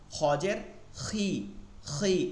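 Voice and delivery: খি thick and heavy; heavy kha. Shown as a demonstration. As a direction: keep খি মোটা. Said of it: "এটা কিন্তু খি না". (মোটা করে খি)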